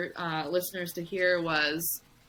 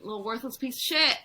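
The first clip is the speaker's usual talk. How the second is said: lightly voiced self-scolding, higher, breaking into a laugh; mock inner bully, pitched up; harsh inner voice; 4 semitones higher, faster than usual. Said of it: "in my mind, I'm like".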